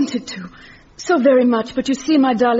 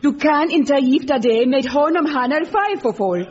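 stern fatherly Swedish, higher pitched; father's angry words in Swedish; 5 semitones higher than usual. Retold or imitated. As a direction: deliver the father's verdict gravely. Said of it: "my father's angry words".

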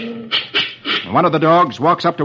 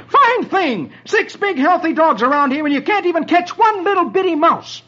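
high exasperated scolding; snarling Dagwood. Acted. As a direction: scold the dogs in disgust. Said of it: "snarls at 'em".

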